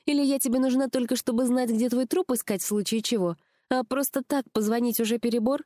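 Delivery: high-pitched, indignant character voice; accusing friend, high and insistent; reproachful friend. A narrator's reading. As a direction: press the complaint, pitched well up. Friend keeps reproaching on phone.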